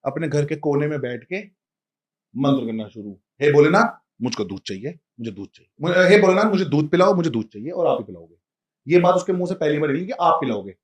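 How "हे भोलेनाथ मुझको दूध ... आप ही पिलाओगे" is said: pleading prayer. Retold or imitated. Child pleads to Shiva.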